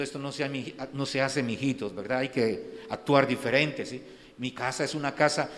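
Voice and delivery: soft, gentle scolding, like a mild parent; mock the too-gentle Jesus, softly; mock meek Jesus. Preacher mocking a meek Jesus scolding children, soft and gentle. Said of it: "a Jesús apacible".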